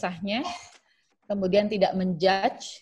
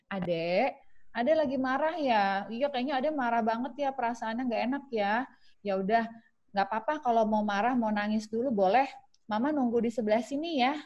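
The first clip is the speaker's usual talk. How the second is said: calm soothing mother. Shown as a demonstration. Parent calmly addressing angry child.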